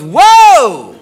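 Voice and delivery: high, loud, drawn-out whoa; big mock exclamation of alarm; startled girlfriend. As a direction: imitate her alarmed stop-right-there. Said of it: "And she goes".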